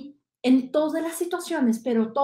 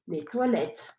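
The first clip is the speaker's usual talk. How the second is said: "Où sont les toilettes, s'il vous plaît?" softer, with pauses between parts; soft model phrase; 6 dB quieter, slower than usual. Shown as a demonstration. Teacher drills the phrase slowly, quietly. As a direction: say it quietly in chunks. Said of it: "repetir conmigo".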